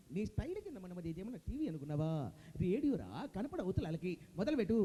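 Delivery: unimpressed radio boss; Jayaprakash Reddy impression. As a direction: scold sarcastically, order him to begin. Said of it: "Jayaprakash Reddy గారు".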